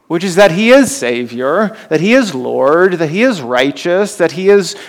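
each "is" lifted and rising; building emphasis on "is"; stress on is. Acted. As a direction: hit "is" in every line as the list builds. Sermon build on Jesus' titles.

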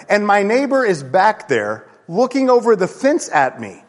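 ordinary delivery

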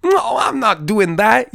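high, loud, slow mock outrage; Tyrese impression. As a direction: squeal it out like Tyrese refusing a stunt. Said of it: "Tyrese would always go like".

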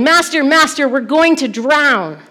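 high, loud cry of alarm; shouting. Retold or imitated. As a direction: shout it to wake the master, stretching the end.

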